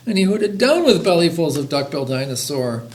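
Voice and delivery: lively, rhythmic read-aloud; children's story reading. A narrator's reading. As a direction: read a rhyming picture book to listeners. Reads a picture book aloud.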